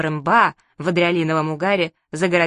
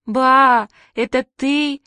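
put-on high, pitiful childish call; plaintive wail; 5 semitones higher, 4 dB louder, much slower than usual. A narrator's reading. Frightened children hear someone behind the door, plaintive wail. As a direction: wail it hopefully and piteously. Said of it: "заголосили мы жалобно".

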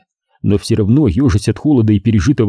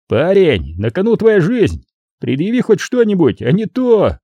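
higher, pressing voice; threatening gangster; 8 semitones higher than usual. A narrator's reading. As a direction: demand it under threat. (с угрозой)

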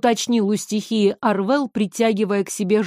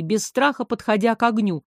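usual speaking voice

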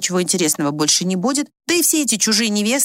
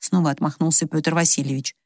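ordinary delivery, nothing marked

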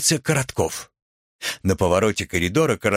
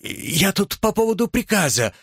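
higher, nervous, breaking plea; faltering voice; 9 semitones higher than usual. A narrator's reading. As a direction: beg a minute, voice catching. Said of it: "прерывающимся голосом". (высоким прерывающимся голосом)

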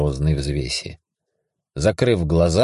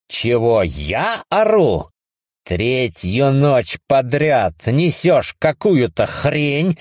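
sarcastic rant; 7 semitones higher, slower than usual. Acted. Ranting sarcastically.

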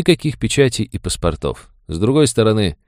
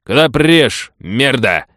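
put-on hostile high old man's snarl, louder; swearing old man; 6 semitones higher, 4 dB louder, slower than usual. Old man with shotgun swears at stranger, angry. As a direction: curse the trespasser, higher and louder. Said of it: "выругался он".

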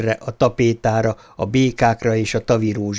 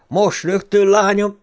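stern command; 9 semitones higher, 3 dB louder than usual. A narrator's reading. Father's command.

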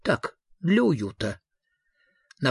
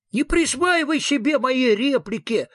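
high, eerie ghost voice snapping crossly; a spectre offended at stolen lines; angry ghost; 11 semitones higher than usual. Acted. Ghost scolds the visitor for stealing its lines, high and cross. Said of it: "сердито отрезало привидение".

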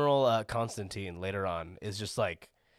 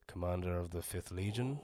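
Callus voice; 3 semitones lower, 6 dB quieter than usual. Pretend. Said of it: "Can you do a Callus?".

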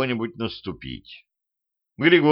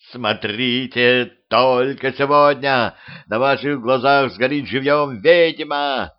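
shouting; 2 semitones higher, slower than usual. Acted. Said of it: "кричал он".

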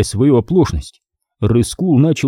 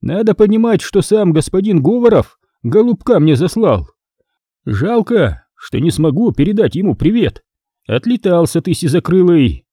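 higher, dismissive boss voice; contemptuous boss; 6 semitones higher than usual. A narrator's reading. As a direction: shoo the underling away.

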